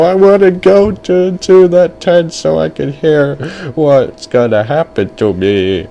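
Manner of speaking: put-on high-pitched pleading little boy; begging kid. Boy begs parents to visit the tent, high pleading. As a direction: beg like a kid who wants to go. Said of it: "he begged his parents to go".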